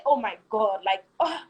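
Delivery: high, fast, exasperated whine; exasperated complaint. Retold or imitated. Wife complaining husband won't listen, high fast exasperated.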